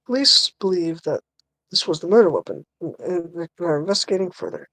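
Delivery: TV news voice. Acted. Newsreader announcing an actor's arrest to viewers, lightly put-on TV news voice. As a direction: read it out like a TV news report. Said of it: "you wanna be the T V voice?".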